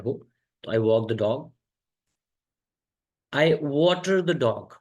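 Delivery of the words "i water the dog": very slow and deliberate; slow model take. Shown as a demonstration. Teacher introduces a new phrase, very slow. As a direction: let each word land for the class. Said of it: "I water the dog मतलब".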